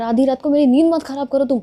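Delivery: mild yelling at a friend over a late-night call; retold yell at midnight. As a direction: tell her off for waking you. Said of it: "तुम मुझ पे चिल्ला रही हो?".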